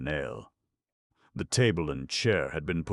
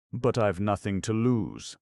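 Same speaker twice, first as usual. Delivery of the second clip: fretful; 6 semitones higher, 5 dB louder than usual. A narrator's reading. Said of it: "she said fretfully".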